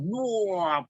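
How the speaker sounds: high, drawn-out mock retch; imitated retching. Spirit driven out of the sick person, imitated retching. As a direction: imitate a "wah" as it comes out. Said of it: "dia muntah".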